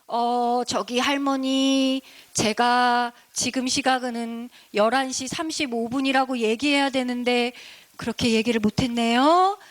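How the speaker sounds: slow, polite, drawn-out explanation; acted courteous apology, unhurried; kindly. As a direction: gently take time to answer an elder. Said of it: "그렇게 친절하게 얘기하고 나니까".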